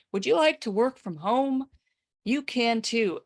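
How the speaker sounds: lightly voiced sales pitch, lifted pitch; video pitchman. Seller makes a video in front of a yacht, mildly salesy. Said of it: "making a video saying".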